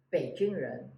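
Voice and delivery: 北京人 said in Mandarin tones; Chinese pronunciation. Shown as a demonstration. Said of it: "people of Beijing".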